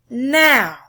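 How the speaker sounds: slow, dramatic poem reading. Acted. Teacher reading a poem aloud to class, dramatic poem reading. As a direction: read it like you're watching the runner on base.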